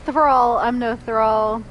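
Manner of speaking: loud, offended denial; indignant. Acted. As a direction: bristle at being called a thrall. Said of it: "That's what I'm gonna say".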